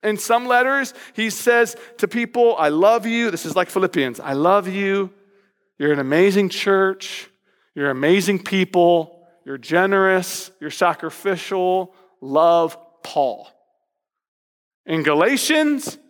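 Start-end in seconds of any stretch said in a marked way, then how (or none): 2.6-13.5 Paul signing off fondly; loving letter voice. Acted. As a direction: read it like a tender love note. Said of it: "Different tone".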